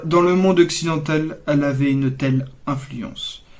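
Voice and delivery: measured, declamatory tribute reading; poem recital. Acted. Vlogger reads his poem honouring the late queen, measured recital. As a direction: recite line by line, pausing between phrases.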